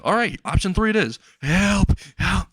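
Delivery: high-pitched mock cry for help; acted scream for help. Terrified captive calling out to passersby, high mock screaming. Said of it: "He starts screaming out for help".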